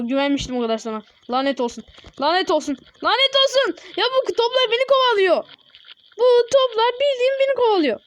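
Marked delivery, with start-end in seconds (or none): 1.3-3.8 frustration boiling over, pitch climbing; building frustration. Real, not acted. Gamer losing again, cursing at the screen, building frustration. Repeating curse, rising frustration. 4.0-8.0 high-pitched whiny protest; whiny complaint. Real, not acted. Gamer whining the balls are chasing him, high whine.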